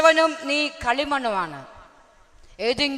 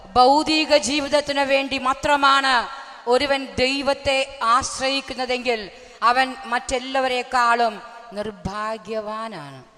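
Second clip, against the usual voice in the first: slow scripture reading; slower than usual. Acted. Preacher reads Corinthians to the congregation, slow and solemn. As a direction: read it slowly like a verdict.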